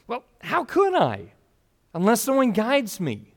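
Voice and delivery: the Ethiopian frustrated he can't understand. Retold or imitated. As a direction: let the helplessness push the pitch up. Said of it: "Do you hear the frustration there?".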